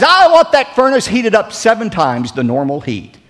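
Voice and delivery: lightly acted irate order, pitched high; mock angry king. Furious king ordering the furnace heated, mildly acted anger. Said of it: "He was so angry".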